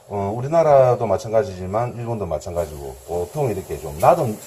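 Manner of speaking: speaking through a face mask; muffled words behind a mask. Real, not acted. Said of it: "마스크를 쓰고 있어서 발음이 불분명합니다".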